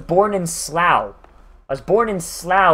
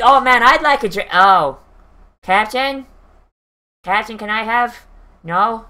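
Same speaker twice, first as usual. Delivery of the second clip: imitating Cole. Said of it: "Cole's like".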